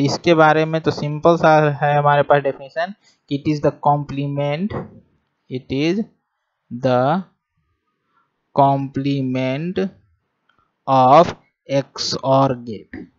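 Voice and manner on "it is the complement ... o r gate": each word drawn out slowly for note-taking; slow classroom dictation with pauses. Acted. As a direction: dictate it word by word so students can write.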